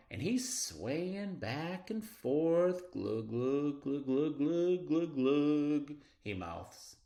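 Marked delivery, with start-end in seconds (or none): 2.9-5.9 rising sing-song glugs; bubbly fish glug. Acted. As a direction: mouth it like a fish singing.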